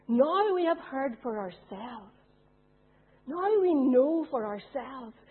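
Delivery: slow, deliberate, each phrase placed; slow weighty reading. Acted. Preacher reading the villagers' words, slow and weighty. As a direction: lean on every word.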